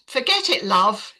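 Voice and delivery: brushing off the patient in a mock English accent. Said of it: "in his good English accent".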